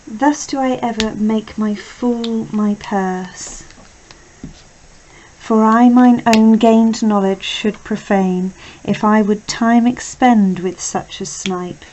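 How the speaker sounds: measured verse reading, stressing key words; Shakespeare recitation. Acted. Teacher reads Iago's soliloquy to students, measured recitation. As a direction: read the verse out deliberately, with some projection.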